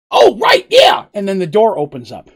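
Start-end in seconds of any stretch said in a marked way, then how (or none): 0.1-1.1 very high squeaky yelp; sudden realization. Acted. Petal realising the door was open, high squeak. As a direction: squeak it out as it dawns on her. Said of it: "She's like, you hear".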